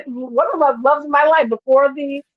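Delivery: laughing through the words, high. Real, not acted. To her co-host about an old love, laughing. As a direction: giggle while you say it.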